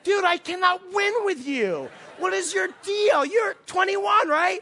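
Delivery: high, loud, drawn-out frustration; comic wailing exasperation; exasperated. Retold or imitated. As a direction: plead at the end of your rope. Fed up with the man's denials.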